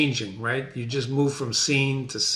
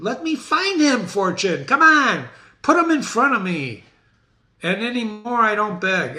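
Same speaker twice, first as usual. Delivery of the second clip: higher, urgent avenging warrior; Macduff seeking Macbeth; 5 semitones higher than usual. Acted. Teacher reading Macduff to class, higher urgent warrior voice. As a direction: hunt the tyrant with rising urgency.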